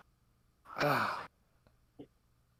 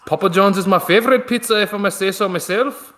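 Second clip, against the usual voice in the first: lightly put-on Irish accent, a bit higher; fake Irish accent; 5 semitones higher, 3 dB louder than usual. Streamer hams up a fake Irish accent. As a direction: try an Irish accent for the listeners. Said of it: "That sounded like a good fake Irish accent".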